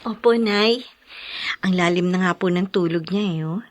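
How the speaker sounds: hushed. Acted. Daughter telling mother the baby sleeps, hushed. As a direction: speak low, don't wake the baby.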